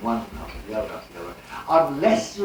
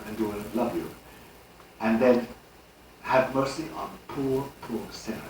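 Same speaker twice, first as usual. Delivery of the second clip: recited prayer; 3 semitones lower than usual. Retold or imitated. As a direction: pray it as a devout recitation. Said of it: "recite this prayer".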